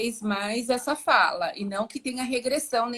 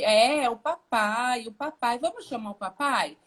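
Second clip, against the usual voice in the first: parent modelling the word. Shown as a demonstration. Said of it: "você vai repetir".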